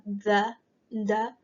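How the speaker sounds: THE sounded out alone with a voiced TH. Shown as a demonstration. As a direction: make the TH in THE vibrate in the neck. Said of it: "feel the vibration in your neck".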